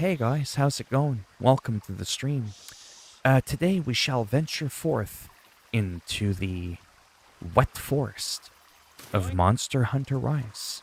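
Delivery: very calm, relaxed, easygoing, mellow delivery. Streamer showing how they can sound when greeting viewers: very calm. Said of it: "I can be very calm".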